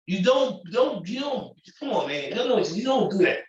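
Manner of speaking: really upset, pleading with them to stop. Real, not acted. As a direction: voice climbing in frustration. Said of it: "I'm getting upset right now".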